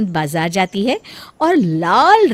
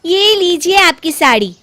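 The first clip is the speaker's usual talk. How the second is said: higher, louder sarcastic daughter-in-law; snide bahu; 7 semitones higher, 6 dB louder than usual. Acted. Bahu gives her mother-in-law the sari, snidely. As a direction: hand it over with a dig. The speaker voiced handing sari.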